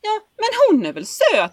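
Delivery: laughing imitation. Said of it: "Han bara".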